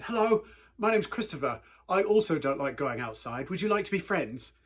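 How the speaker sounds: greeting a big kid hopefully, lightly voiced child; little British kid. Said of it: "in my weird little British accent".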